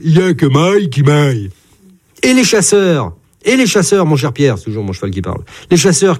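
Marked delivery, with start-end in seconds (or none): 0.0-1.5 lowing like an ox; a mild bovine moo in the voice. A narrator's reading. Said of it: "meugle-t-il".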